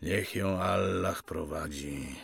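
slow, soft prayerful wish; subdued fatherly blessing; quiet blessing. Acted. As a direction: bless her softly, unhurried. Father blesses the absent girl.

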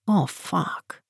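hushed startled curse. Acted. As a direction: blurt it out, caught off guard. Startled friend spots someone.

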